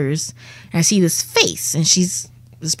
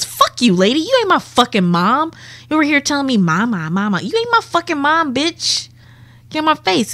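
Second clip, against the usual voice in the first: mock baby tantrum; 8 semitones higher than usual. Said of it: "I'm crying in her face".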